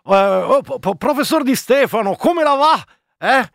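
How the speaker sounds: hammed-up cheeky reporter greeting; Staffelli. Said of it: "faccio Staffelli".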